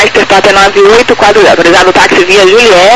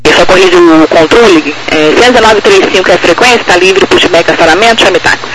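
tinny distant radio voice; radio transmission; 9 semitones higher, 4 dB louder than usual. Real, not acted. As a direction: heard over the aircraft radio.

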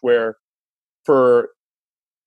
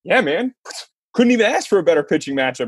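eager excitement; 5 semitones higher than usual. Retold or imitated. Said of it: "I'm just jacked".

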